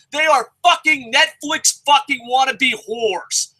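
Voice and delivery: high, slow, spitting out each word; slow angry rant. Real, not acted. Angry vlogger insulting YouTube, slow and spiteful. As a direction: sneer it out word by word.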